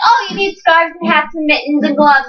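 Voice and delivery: singsong parody of nagging parents; mocking singsong. Teen mocks parents' nagging, in a mocking singsong. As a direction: sing it back like a nagging parent.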